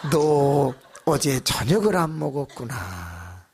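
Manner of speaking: a laughing, drawn-out spooky figure; hammed-up apparition. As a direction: ham up the ghost's line. Repeats the figure's line, relishing it.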